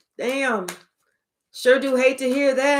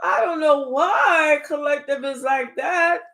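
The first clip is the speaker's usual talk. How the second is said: feigned innocence; 3 semitones higher, slower than usual. Retold or imitated. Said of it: "acting like".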